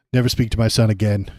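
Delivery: loud, stern warning; angry father. Acted. Trump ordering the suitor away from his son, loud and stern. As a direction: warn them off with forceful volume. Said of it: "he says, pushing me to the door".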